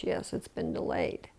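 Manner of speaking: whispered, matching the hush; whispered reply. Retold or imitated. Airline agent whispering back that the plane is delayed. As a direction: breathe the answer back without voice. Agent answers hushed question quietly.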